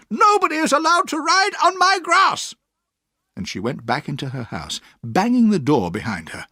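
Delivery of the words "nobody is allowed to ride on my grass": put-on high, loud furious old-lady yell; angry shouting. A narrator's reading. Aunt shouts at the Murdstones riding on her grass, furious. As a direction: drive them off her lawn. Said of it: "she shouted".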